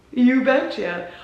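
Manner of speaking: slow, drawn-out Minnesota "You betcha" with the vowels pushed hard; exaggerated Minnesota accent. Shown as a demonstration. Playing up her Minnesota accent for viewers, thick Minnesota accent. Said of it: "pumping it up a little bit".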